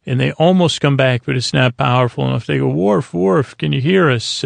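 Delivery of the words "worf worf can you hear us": a raised, retold call across a gap. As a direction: call Worf's name as if he can't hear you. Calling out to Worf across phase.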